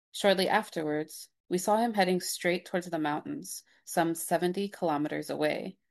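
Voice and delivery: measured read-aloud narrator voice; documentary narration. Acted. Reads a documentary snippet aloud.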